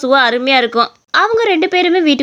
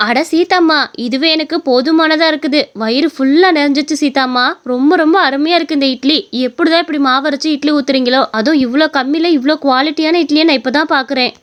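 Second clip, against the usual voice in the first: delighted customer; 2 semitones higher than usual. Acted. Full customer praising the idli seller, delighted. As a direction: gush over the food.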